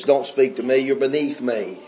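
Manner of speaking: low, cold mock snobbery; snooty sourpuss. Preacher mocking rich townsfolk, lightly snooty and cold. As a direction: imitate a stuck-up rich woman, lightly. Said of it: "Bunch of sourpusses".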